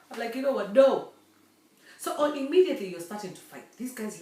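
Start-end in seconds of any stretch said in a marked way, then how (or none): 0.4-1.1 emphatic no. Retold or imitated. Firm refusal.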